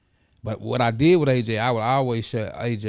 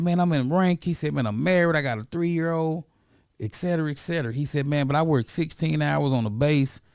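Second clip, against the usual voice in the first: put-on raised voice as the young soldier; lightly pitched-up grown student listing his life; voicing the student; 4 semitones higher than usual. Former student telling his mentor his news, in a raised voice.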